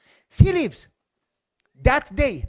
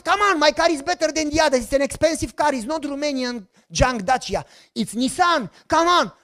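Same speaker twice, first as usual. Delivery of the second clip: raised, eager pitch to buyers; begging people to buy the car; mock pleading sales pitch; 5 semitones higher than usual.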